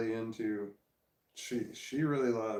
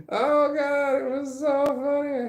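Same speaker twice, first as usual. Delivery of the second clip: high laughing squeal; 8 dB louder than usual. Real, not acted. Laughing at daughter crying.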